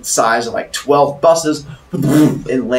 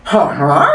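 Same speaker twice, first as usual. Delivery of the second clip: imitated swan honk; 3 semitones higher, 4 dB louder than usual. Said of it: "as a swan".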